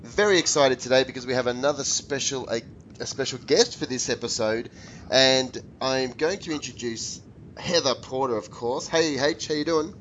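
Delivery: husky head cold voice; hoarse from a sore throat. Real, not acted. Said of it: "by the sounds of your sexy head cold voice".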